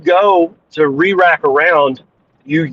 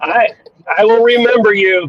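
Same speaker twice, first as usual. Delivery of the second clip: toothless; 5 semitones higher than usual. Acted. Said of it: "because I'm so old".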